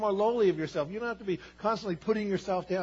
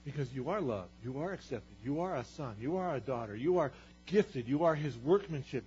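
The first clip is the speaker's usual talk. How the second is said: tender reassurance; 3 semitones lower, 4 dB quieter than usual. Acted. Soft repeat of declarations.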